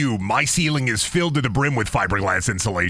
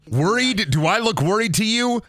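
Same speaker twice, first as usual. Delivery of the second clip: mock cocky voice; 10 semitones higher than usual. Mock tough guy answer.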